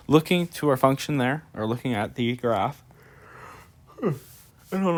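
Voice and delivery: talking through a yawn. Real, not acted. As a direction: stretch words as if yawning. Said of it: "I'm yawning so much, but I'm yawning today".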